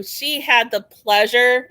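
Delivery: slow, sarcastic emphasis on pleasure. Real, not acted. Guest on meeting the ex, sarcastic. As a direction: draw it out with open sarcasm. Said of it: "I'm being very sarcastic here".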